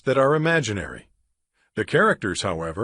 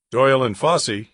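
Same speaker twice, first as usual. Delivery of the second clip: a touch louder, crisply professional phone greeting; best scientific voice; 4 dB louder, faster than usual. Acted. Drake answering the lab phone, in a mock-professional voice. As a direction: answer like a serious scientist on duty. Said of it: "speaking in his best scientific voice".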